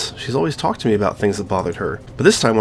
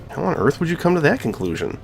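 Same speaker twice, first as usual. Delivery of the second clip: higher, put-on girl's voice for Monika; playing Monika; 7 semitones higher than usual. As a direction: read Monika's lines in a lifted, girlish voice. Voicing Monika.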